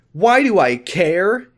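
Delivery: high, loud, drawn-out outburst; indignant shout. A narrator's reading. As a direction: throw the question back as a slow shout. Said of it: "Amy shouted".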